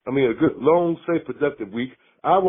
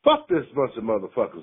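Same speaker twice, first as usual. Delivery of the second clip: angry rant; slower than usual. Real, not acted. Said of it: "I love that rant".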